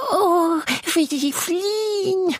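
very high, slow joyful cry; delighted little monster. Acted. Tiny monster watches everyone flee, squealing with joy. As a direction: squeal with glee.

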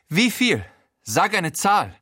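high, raspy-free mocking crook voice; wrecked Frankie voice. A narrator's reading. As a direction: sneer it out like a battered gangster. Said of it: "wieder Frankie".

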